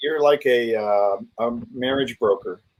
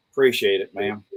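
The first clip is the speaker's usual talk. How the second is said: imitated polite Texas accent, clipped first syllable; Texas drawl; 5 semitones lower, 4 dB quieter than usual. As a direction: drop the opening vowel like a polite Texan. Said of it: "Now that sounds like".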